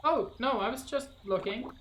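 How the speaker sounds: apologetic game hero. Acted.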